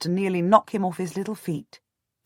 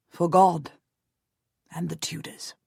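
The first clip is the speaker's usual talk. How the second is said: trailing down into a soft whisper; quietly. A narrator's reading. Jasper pledging his men to the cause, hushed. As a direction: murmur it like a vow, fading to a whisper. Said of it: "Jasper says quietly".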